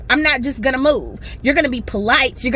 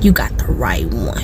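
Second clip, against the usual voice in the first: breathy whispered threat. Real, not acted. To the viewers about the rude lady, a menacing whisper. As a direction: hiss it like a secret warning.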